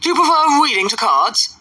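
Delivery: high-pitched, incredulous question; astonished. A narrator's reading. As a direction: ask as if you can hardly believe it. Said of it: "looked at her with astonishment".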